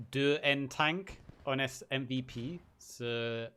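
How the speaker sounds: halting French reading. Real, not acted. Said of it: "I don't speak French".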